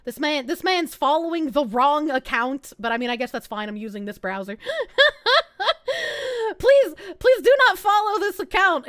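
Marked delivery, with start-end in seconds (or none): 4.6-6.5 loud squealing laugh; real burst of laughter; high laugh. Real, not acted. Laughs at wrong account. 6.6-8.9 loud pleading. Real, not acted. Begging chat not to follow.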